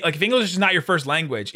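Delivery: ordinary talk, nothing marked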